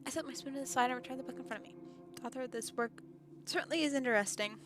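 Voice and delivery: reading the game's narration aloud; calm first-person story reading. Acted. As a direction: narrate the inner thoughts evenly. Reads visual novel narration.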